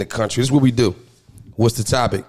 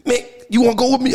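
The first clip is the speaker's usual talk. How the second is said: imitating little brother; 9 semitones higher than usual.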